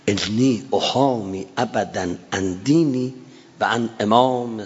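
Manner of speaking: slow chanted Arabic verse; solemn poem recitation; recited verse. Acted. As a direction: intone each line slowly. Recites Abbas's Arabic battle verse.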